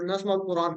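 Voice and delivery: नस्माउल कुरान closed on the bare "n"; stopping form. Shown as a demonstration. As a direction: end नस्माउल कुरान with no final vowel. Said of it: "आयत खत्म हो रही है".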